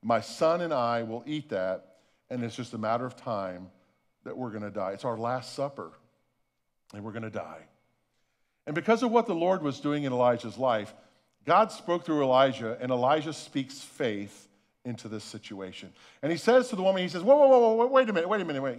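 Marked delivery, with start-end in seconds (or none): 0.0-7.7 hopeless thought. Retold or imitated. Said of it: "this woman is thinking". 17.2-18.8 high, loud alarmed call to stop her; urgent whoa. Acted. Elijah stops the widow, alarmed.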